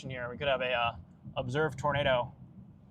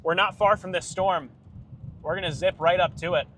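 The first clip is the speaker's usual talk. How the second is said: breathless shouting over wind; 3 semitones higher, 5 dB louder than usual. Real, not acted. Storm chaser urgent live warning.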